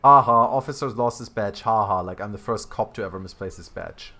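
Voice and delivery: loud, mocking fake "ha ha"; sarcastic mock laugh. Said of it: "laughs sarcastically".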